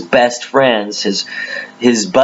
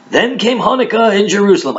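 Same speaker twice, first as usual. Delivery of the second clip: put-on high, singsong old Jewish accent; 10 semitones higher than usual. Preacher rereading the Hanukkah verse, old Jewish accent. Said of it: "do the old Jewish accent".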